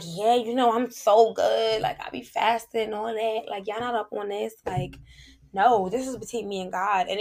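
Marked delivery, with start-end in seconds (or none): 0.0-4.5 mildly smug boast about fasting; smug bragging. Retold or imitated. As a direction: show off lightly to friends. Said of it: "I wouldn't be like".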